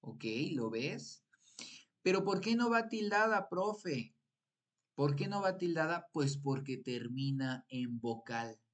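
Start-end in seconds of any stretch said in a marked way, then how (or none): 2.0-4.2 high, quick pupil's question; mock student. Teacher imitating a student asking the profe, high quick mock voice. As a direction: pipe up like a puzzled pupil.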